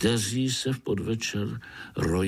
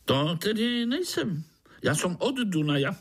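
high, quick grinning mosquito; jolly mosquito grinning at a spider; 10 semitones higher than usual. Acted. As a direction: tease the little spider, fast and high.

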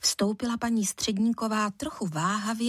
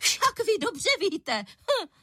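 accusing; 11 semitones higher, slower than usual. A narrator's reading. Furious mother on the phone.

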